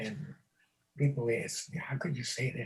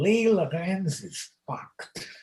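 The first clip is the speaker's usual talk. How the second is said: booming, very loud, slow; 5 semitones higher, 9 dB louder than usual. Telling a story, quoting what a man said to a passing pair, retelling a loud remark. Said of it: "in a rather loud, loud voice, he says".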